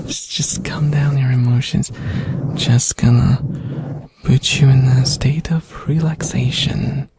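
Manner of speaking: slow soothing hypnotist whisper; ASMR whisper. Acted. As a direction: lull them to sleep in a whisper. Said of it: "I'm not gonna hypnotize you".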